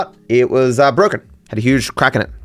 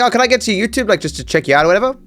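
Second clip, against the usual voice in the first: high, friendly tailor voice; imitating the tailor; 8 semitones higher, faster than usual. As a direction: lightly mimic the chatty tailor. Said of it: "he's like".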